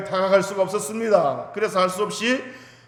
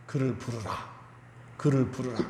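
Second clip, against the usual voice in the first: Jesus speaking; 5 semitones lower, 9 dB quieter than usual. Acted. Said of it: "이렇게, 에, 말씀하셨습니다".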